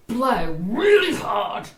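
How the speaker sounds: drawn-out, slow coaching; emphatic instruction. Acted. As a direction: stretch out each word like an instruction. Joke boyfriend gives instruction.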